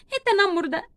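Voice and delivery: mild sob in the voice; upset and close to crying; tearful. Acted. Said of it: "بتعيط".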